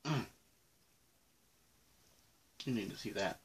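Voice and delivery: chewing candy; talking while chewing; mouth full. Real, not acted. Seen 2: Bites candy at -3s; mouth closed, chewing while holding bitten piece.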